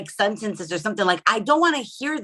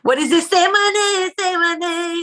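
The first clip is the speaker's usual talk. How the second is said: loud, high mock command; hammed-up bedroom bossiness; insistent demand; 9 semitones higher, 6 dB louder than usual. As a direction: demand it louder and higher, playfully. Acting out demand to partner.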